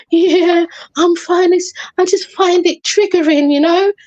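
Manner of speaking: mildly weepy retold reply; tearful. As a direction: put on a touch of upset. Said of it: "started to tear up immediately again".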